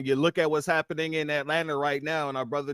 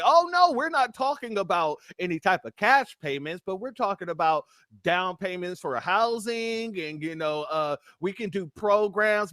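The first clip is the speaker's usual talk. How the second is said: higher-pitched imitation of evasive spokespeople; mock official denial; 4 semitones higher than usual. Officials fending off the news interviewer, imitated denial.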